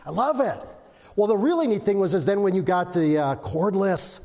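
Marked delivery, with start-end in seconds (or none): 0.0-0.6 high, gushing excitement over new gadget; giddy delight. Retold or imitated. Pastor recalls first touch-tone phone, high giddy excitement. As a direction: squeal it like a kid with a new toy. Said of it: "and I'm like".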